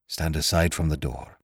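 soft hoarse whispered order; creaky whisper. A narrator's reading. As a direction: rasp the order quietly. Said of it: "came the order".

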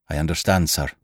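ordinary delivery, nothing marked

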